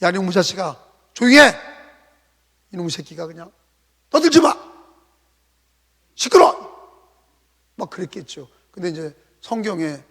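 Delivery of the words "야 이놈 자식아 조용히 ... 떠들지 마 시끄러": half-acted rough scolding of a beggar; rough crowd rebuke. Crowd scolding noisy blind beggar, gruff mock rebuke. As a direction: growl at him to shut up, coarse and annoyed. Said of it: "그 현장에서는 어땠겠어요?".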